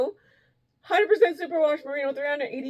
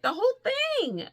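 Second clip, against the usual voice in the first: high, swooping emphasis on whole; friend's emphatic reply, pitched way up; imitated insistence; 12 semitones higher than usual. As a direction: insist in a much higher imitated voice. Voicing friend insisting on gift.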